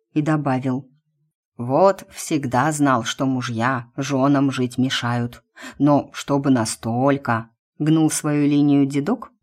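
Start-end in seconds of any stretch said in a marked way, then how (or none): 1.6-7.5 put-on slow, low old man; a slow, musing old man. Old man voiced in story. (медленный голос старика)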